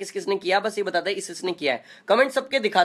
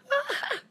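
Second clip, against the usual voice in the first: laugh; 4 dB quieter than usual. Real, not acted. Laughing on live stream.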